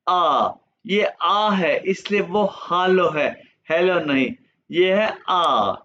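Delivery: आ drawn out slowly; slow alphabet demo. Shown as a demonstration. Teacher slowly models German letter A. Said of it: "गौर से सुनना है".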